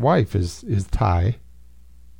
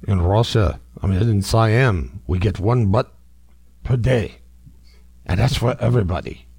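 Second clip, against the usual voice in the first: put-on Russian accent. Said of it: "quasi-evil Russian voice".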